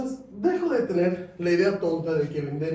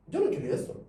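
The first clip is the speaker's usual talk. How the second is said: mock regretful customer; 12 semitones higher, faster than usual.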